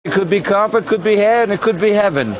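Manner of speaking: put-on camp sixties London accent; Austin Powers voice.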